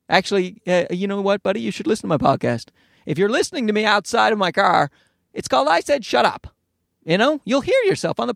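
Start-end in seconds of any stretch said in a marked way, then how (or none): none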